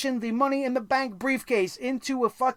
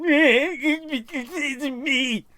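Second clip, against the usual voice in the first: mock crying; 2 semitones higher than usual. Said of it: "And then he's crying".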